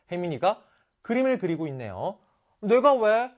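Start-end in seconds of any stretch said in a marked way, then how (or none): 2.6-3.3 high, loud, snippy brush-off; bratty refusal. Acted. Girl refuses to help her classmate, bratty and snippy. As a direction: toss the request aside like a bratty kid.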